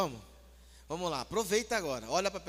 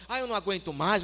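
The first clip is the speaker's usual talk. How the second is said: loud, hammed-up fed-up rant; playacted exasperation; mock nervous outburst; 2 semitones higher, 6 dB louder than usual. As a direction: pretend you're at the end of your rope. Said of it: "nervoso mesmo, sabe? Ô, nervoso".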